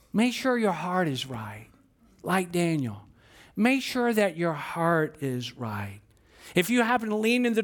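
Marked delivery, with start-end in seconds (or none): 0.1-6.0 slow earnest plea. Acted. Slow pastoral admonition.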